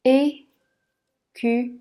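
"Écureuil" stretched out very slowly. Shown as a demonstration. Teacher to learner spelling out the word very slowly. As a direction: draw out "Écureuil" syllable by syllable, very slowly. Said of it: "le son œil se prononce comme".

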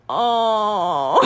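drawn-out dismayed "oh" imitating a crowd; mock crowd gasp of sympathy; audience groan. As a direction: mimic a whole audience's pained reaction. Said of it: "the whole audience goes".

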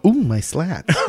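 mock complaint. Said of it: "everyone can go".

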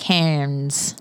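Cairns said as "cans", no r; Australian Cairns. Shown as a demonstration. Host shows Canadians the local Cairns, like "cans". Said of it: "Like tin cans".

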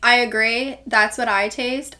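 just sipped, talking after a sip; words after a mouthful of coffee; while sipping a drink. Real, not acted. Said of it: "Sorry, I'm sipping".

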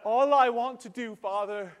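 put-on high, loud, devoted-child declaration; hammed-up angelic kid; adoring child. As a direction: play the dream child, eager to obey. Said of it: "when your child comes and says".

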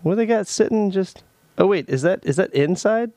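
high, fast, eager questions; sudden eager noticing; excited curiosity. Real, not acted. Spotting things on camera.

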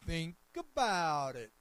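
loud, slow imitation with a long stretched ABOUT; put-on voice, swooping down through a drawn-out ABOUT; church lady's call-out. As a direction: mimic a congregant hollering from the pews. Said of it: "that's exactly how she would say it".

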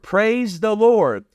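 drawn-out, weighty praise; slow preacher's praise. Acted. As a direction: stretch it out for the congregation. Preacher's exclamation.

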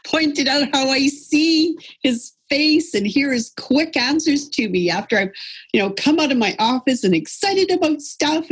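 high-pitched, laughing as she tells it; talking through laughter. Real, not acted. Wife recounting a quarrel with her husband, laughing. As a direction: get the words out through real laughter.

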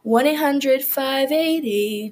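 slow, drawn-out number read; ad phone number. Pretend. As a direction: spell out the number for viewers. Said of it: "a quick ad from our sponsor".

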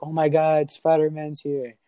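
mock starstruck child; kid freaking out. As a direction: act out a kid freaking out, lightly. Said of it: "he starts freaking out".

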